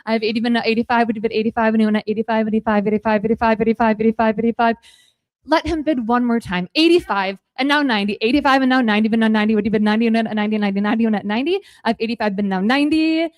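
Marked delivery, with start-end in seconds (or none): 0.0-4.8 rapid rhythmic auction chant; auctioneer. Acted. Auction chant during live auction. 6.7-13.3 rapid rhythmic auction chant; auctioneer. Acted. Auction chant during live auction.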